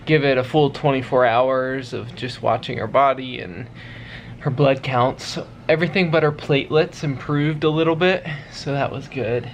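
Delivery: breathless from dancing; out of breath from dancing. Real, not acted. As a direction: talk while catching breath. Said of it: "I'm out of breath from dancing".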